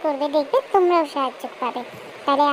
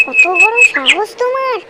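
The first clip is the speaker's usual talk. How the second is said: loud, slow, higher outraged shout; furious shout at the bully; angry; 7 semitones higher, 6 dB louder, slower than usual. Acted. Mouse confronts the hunter.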